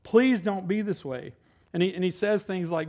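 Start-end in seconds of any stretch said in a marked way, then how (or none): 0.0-1.3 quieter repeat, slow; softer plea. Retold or imitated. Solomon begging the young man, soft pleading echo. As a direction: let the plea fall back gently. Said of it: "Solomon pleading".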